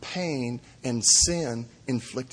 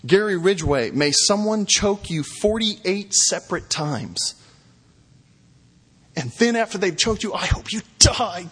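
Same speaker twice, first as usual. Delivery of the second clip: retold angry outburst; 4 semitones higher than usual. Preacher voicing victims' families cursing the killer, angrily. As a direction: read the families' curses with heat. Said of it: "Some shouted at Gary Ridgway".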